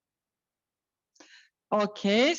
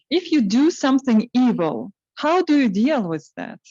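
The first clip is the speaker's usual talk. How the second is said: louder repeat; 7 dB louder than usual. Real, not acted. Host repeating the question for Vadim, louder. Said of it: "Can you repeat the question?".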